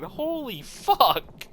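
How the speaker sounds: high, slow, stretched-out laugh; laughing disbelief. Real, not acted. Streamer reacting to a chat joke, laughing in shock. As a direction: drag it out while cracking up.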